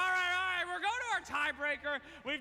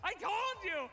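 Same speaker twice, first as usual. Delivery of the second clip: excited teasing; 5 semitones higher than usual. Real, not acted. Host mocks contestant's teammate.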